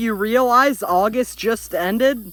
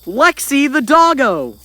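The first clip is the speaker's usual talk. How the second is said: florid victorian lecturer; 5 dB louder than usual. Pretend. Grand introduction of the new team.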